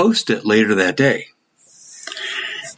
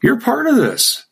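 defiant reply; 9 semitones higher than usual. Retold or imitated. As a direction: say it with blunt defiance. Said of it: "And I said".

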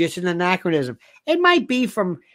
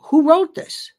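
much higher mock-incredulous question; baffled reader; 9 semitones higher, 4 dB louder than usual. Older people react to a printed note, mock incredulity. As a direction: imitate someone aghast at the printing.

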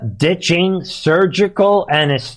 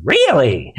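"Really?" said through a laugh. Real, not acted. Commentator scoffs at the news, laughing "Really?". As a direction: chuckle the word "Really?".

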